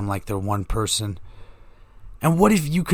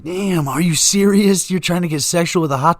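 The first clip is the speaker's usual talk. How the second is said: mock shock; 5 semitones higher, 3 dB louder than usual. Shocked husband reply.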